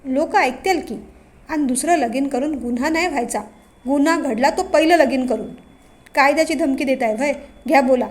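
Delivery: a hint of a sly, bossy village headman; village patil. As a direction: patil talking over his son, lightly voiced. Aaba the village patil voiced.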